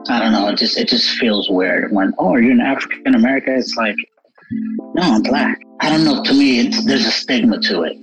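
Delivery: ordinary talk, nothing marked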